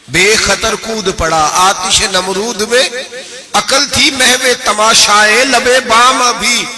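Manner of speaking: slow, drawn-out recital of verse; poem recitation. Acted. Preacher recites Iqbal's couplet to the congregation, slow and solemn. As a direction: recite Iqbal slowly, savouring each line.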